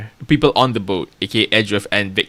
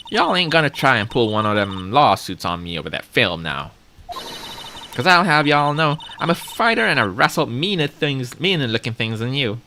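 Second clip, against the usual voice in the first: put-on southern accent; 2 semitones higher than usual. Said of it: "my performance on trying an accent".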